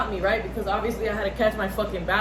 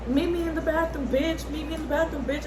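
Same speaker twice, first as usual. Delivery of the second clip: mock challenge, pitched much higher; a hint of a taunting schoolgirl, voiced up high; lightly mimicking her bathroom threat; mocking the girl; 7 semitones higher than usual. Imitating the girl's challenge.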